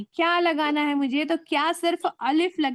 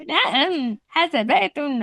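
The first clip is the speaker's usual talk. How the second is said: Arabic pronunciation; much slower than usual. Retold or imitated. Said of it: "ऐसा बोलते हैं".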